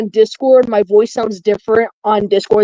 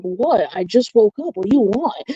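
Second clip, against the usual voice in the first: groggy just-woke voice; 4 dB quieter than usual. Retold or imitated. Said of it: "I'm like".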